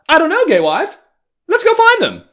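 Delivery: over-the-top mock neighbor hunting for the child; shrieking mock theatrical call. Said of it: "so goddamn theatrical".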